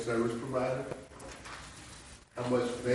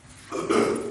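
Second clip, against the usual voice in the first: effort grunt. Real, not acted. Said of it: "I keep grunting, fighting a little cold".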